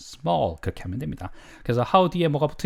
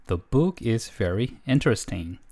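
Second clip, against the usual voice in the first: slow model reading; 4 semitones lower, much slower than usual. Shown as a demonstration. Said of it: "칠삼 문장 시리즈".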